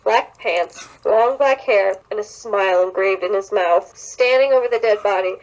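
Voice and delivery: reading a creepy fanfic aloud, mildly dramatic; story reading. Acted. Friend reads a creepy fanfic aloud, mildly dramatic. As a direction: narrate the horror scene with light drama.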